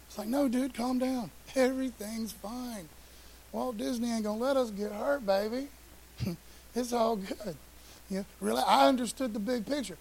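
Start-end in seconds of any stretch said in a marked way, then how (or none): 0.3-7.5 soothing dad. Retold or imitated. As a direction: talk her down gently, in no hurry. Father calming his scared daughter.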